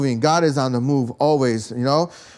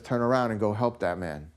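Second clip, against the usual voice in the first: voice of God; 6 semitones lower, 6 dB quieter than usual. Retold or imitated. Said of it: "God speaks to me and says".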